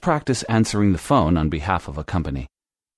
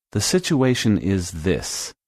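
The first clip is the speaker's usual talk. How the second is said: slow demo; slower than usual. Shown as a demonstration. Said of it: "Andrea uses the phrase".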